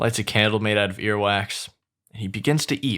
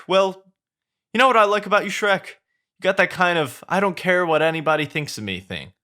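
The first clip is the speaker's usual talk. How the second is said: high, excited chattering donkey; 7 semitones higher, 3 dB louder than usual. Acted. Donkey flatters Shrek in a high excited voice. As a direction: gush at him, high and eager.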